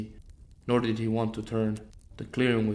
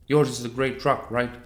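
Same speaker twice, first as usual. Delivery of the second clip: louder, raised question; hunter's question; 6 dB louder than usual. A narrator's reading. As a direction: call it over your shoulder. Hunter asks aloud in forest.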